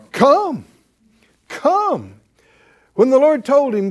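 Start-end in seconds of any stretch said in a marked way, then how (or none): 0.1-2.1 high, loud call of come; calling come with force; loud preaching. Real, not acted. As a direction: ring out the Lord's call. Preacher voicing the Lord's call.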